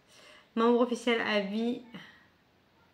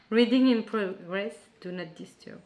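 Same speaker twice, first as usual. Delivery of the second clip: English read with a French accent; accent français en anglais; 5 dB louder than usual. Real, not acted. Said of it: "j'ai un accent, euh, anglais, euh, fabulous". (anglais lu avec l'accent français)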